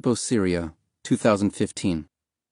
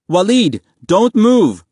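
high, loud panicked yell; frantic shout; 11 semitones higher, 8 dB louder, slower than usual. A narrator's reading. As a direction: scream a warning to his brother. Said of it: "Mahmoud cried".

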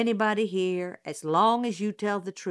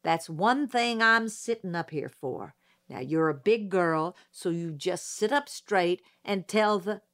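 mild growl meant to soothe; gruff old judge trying to be kind; gruff reassurance; 3 dB louder than usual. Acted. Judge reassuring the witness with a mild growl. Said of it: "he growled".

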